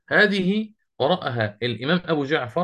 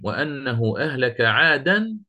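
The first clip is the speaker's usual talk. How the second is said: slow, measured tajwid recitation; Quran recitation; slower than usual. Shown as a demonstration. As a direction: recite it slowly like a verse. Quoting Quran verse in recitation.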